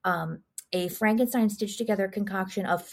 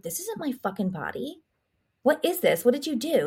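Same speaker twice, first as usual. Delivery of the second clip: mock upset, questions pitched higher; retold upset; 5 semitones higher than usual. Elizabeth confronts Jeffrey about her new body, mock upset. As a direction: lightly act out upset disbelief. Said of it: "she's upset 'cause she's like".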